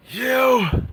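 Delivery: high, drawn-out enraged scream; angry shout. Acted. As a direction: scream it at your friend's killers, stretching each word. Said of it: "And he's so angry".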